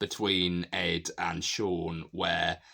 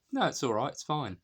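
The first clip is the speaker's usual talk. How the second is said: higher-pitched imitation of brushing off an apology; mock reassurance; 7 semitones higher than usual. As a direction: play a lightly acted "no worries". Retold acceptance of an apology.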